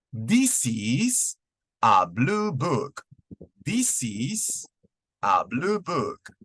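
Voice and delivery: "This is a blue book" said slowly, stressing "blue"; slow model answer. Shown as a demonstration. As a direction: answer in slow, clear chunks. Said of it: "¿Cómo respondo?".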